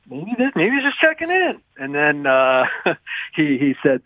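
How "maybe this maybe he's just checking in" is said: much higher, wondering aloud; retold musing. Columnist retelling his thought during the call, high-pitched musing. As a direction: lift it high, like a passing guess.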